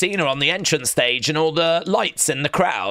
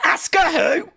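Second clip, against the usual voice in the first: gleeful shout; 14 semitones higher than usual. Real, not acted. Streamer brushes off wrestling in goal joy, shouting. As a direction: shout it, too thrilled to care.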